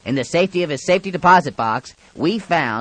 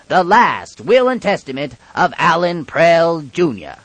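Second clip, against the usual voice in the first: solemn announcement; 2 semitones higher, 3 dB louder, slower than usual. Acted. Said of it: "Here, then".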